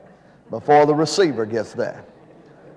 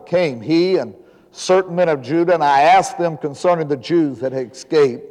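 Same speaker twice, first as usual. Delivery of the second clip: formal, emphatic Bible reading from the pulpit; scripture reading. Acted. Preacher reads Nehemiah chapter one to the congregation, scripture reading. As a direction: read it out in measured, weighty phrases.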